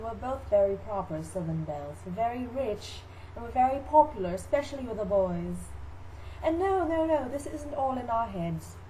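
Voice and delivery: lightly voiced proud belle; Southern belle mother. Mother boasts of likeness to Amanda, mock-genteel. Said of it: "Here's my mother to talk about".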